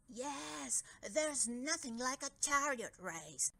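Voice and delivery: contented sigh. Acted. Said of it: "sighed the Dragon King contentedly".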